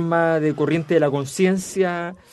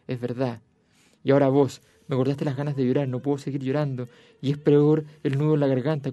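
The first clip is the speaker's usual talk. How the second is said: reading a novel aloud. Acted. Reads the cell dialogue aloud.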